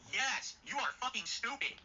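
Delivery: drawn-out, emphatic insult; slow angry jab. Real, not acted. Telling off the decision-maker, slow and pointed. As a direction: spell it out slowly like a verdict. Answering his own rhetorical question.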